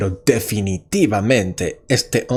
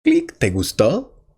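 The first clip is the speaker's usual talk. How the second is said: put-on smug boyfriend thinking; 7 semitones higher than usual. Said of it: "el hombre piensa".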